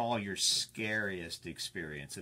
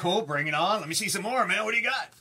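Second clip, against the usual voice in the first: excited; 8 semitones higher, 10 dB louder than usual. Retold or imitated. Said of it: "You're like".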